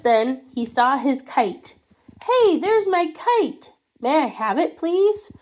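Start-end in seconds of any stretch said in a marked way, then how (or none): 2.2-5.3 put-on excited child. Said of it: "child excited".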